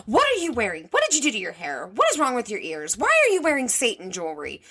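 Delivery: mild mock scream of outrage; toned-down impression of a stepmom screaming questions; imitated scream. Stepmom confronting teen over outfit, mock scream. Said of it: "as she screams".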